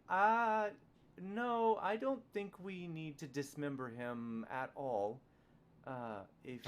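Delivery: high, slow, pleading character voice. Acted. GM voicing Nat's reply.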